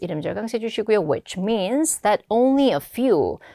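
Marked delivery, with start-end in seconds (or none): 1.0-3.4 very slow, model reading delivery. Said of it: "a few라고 하면은".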